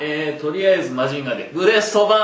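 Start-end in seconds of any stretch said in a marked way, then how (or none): 1.5-2.2 full-throated anime battle cry; screaming attack name. Pretend. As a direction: shout it like a robot hero. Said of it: "必殺技を叫べ".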